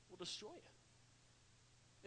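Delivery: slow breathy whisper, almost no voice; dramatic whisper. Real, not acted. Preacher warning the congregation about bitterness, slow hushed whisper.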